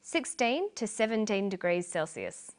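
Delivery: TO light and quick between SIXTEEN and SEVENTEEN; careful range reading with a reduced "to"; unstressed TO. Shown as a demonstration. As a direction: weaken TO, lean on the numbers either side. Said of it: "the two is unstressed".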